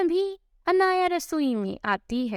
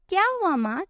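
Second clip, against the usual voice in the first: playful teasing; 4 semitones higher, faster than usual. Acted. Son teasing his worried mother, playful mock concern. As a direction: rib her playfully, lifting the voice. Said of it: "अपनी माँ से मजाक में कहता है".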